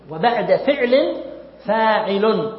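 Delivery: slow, with "فعل" rising and "فاعل" landing; stressing the rule. Shown as a demonstration. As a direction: lean on "فعل" then "فاعل". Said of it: "قاعدة بكلمتين".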